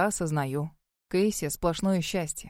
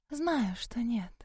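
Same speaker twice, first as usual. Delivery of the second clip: slow whisper, no voice; 3 semitones higher, 7 dB quieter, much slower than usual. Acted. Melanie scolding her friend about the man, slow whisper. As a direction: hiss it out slowly under the breath.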